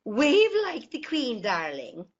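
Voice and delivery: a lightly voiced grand old granny giving orders; imitating granny Lena. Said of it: "my Irish granny, Lena, saying".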